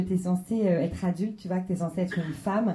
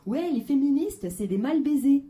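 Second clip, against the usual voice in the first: mocking sexist guy; 4 semitones higher than usual. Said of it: "j'entends des trucs du genre".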